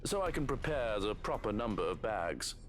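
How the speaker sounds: lightly voiced menacing villain; villain's voice. Villain counting victims for body bags, lightly menacing. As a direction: play the villain coolly asking.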